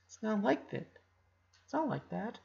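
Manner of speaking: soft, hurt denial; quietly pushing back, hurting; pained denial. A narrator's reading. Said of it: "he replied".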